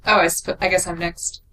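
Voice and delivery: normal talking voice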